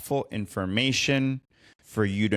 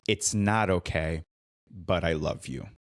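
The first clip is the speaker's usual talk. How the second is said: measured, sinking to a lower, tender close; retold self-correction; 4 semitones lower than usual. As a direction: hold the line, then drop into love. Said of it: "Then she stops herself and she goes".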